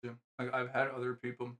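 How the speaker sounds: talking with rice in mouth; words round a mouthful; mouth full. Real, not acted. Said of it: "sorry, I got rice in my mouth".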